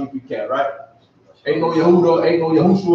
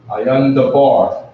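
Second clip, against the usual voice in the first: slow, word by word; slow teaching demo; 4 dB louder, much slower than usual. Shown as a demonstration. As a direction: spell it out slowly for the class. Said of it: "which is comprised of two words".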